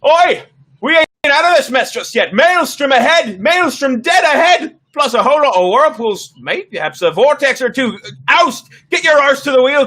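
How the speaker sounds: high, loud first mate's shout; Adeline Fisher yelling. Acted. First mate yelling from the crow's nest, high urgent shout. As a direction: bellow urgent warnings down to the deck. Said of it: "the voice of Adeline Fisher, the first mate, yell".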